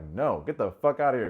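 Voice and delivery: loud retold rebuff; firm imitated refusal; mock angry dismissal. J R turning Nick away.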